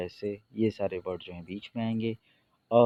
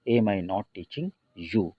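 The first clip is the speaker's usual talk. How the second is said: teacher spells out the English slowly; slow model sentence; much slower than usual. Shown as a demonstration. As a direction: say each word slowly and clearly for students. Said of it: "not का use कर देते हैं". (धीरे-धीरे पढ़ाने वाला उदाहरण)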